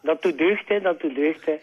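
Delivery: said through a chuckle; pleased little laugh on the words. Real, not acted. Caller pleased about thank-you shirt. (lachend, met een grinnik)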